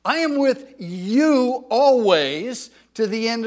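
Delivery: loud preacherly voice of God; voicing the Lord. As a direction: speak as God reassuring a friend. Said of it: "he's saying to us".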